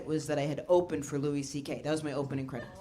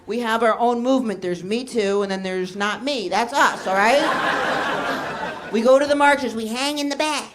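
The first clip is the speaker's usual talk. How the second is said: loud, indignant self-justification, building; mock defensive; 3 semitones higher, 5 dB louder than usual. Comic answering the mother's question, mock defensive. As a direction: protest it with hammed-up defensiveness. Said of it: "I got defensive".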